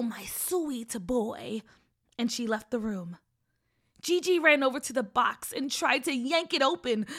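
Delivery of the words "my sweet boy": sickly sweet. Acted. Witch croons to boy.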